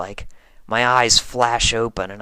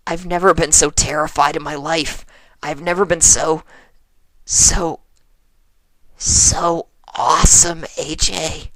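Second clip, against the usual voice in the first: nervous babble; 4 semitones higher, 3 dB louder than usual. Acted. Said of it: "I whisper".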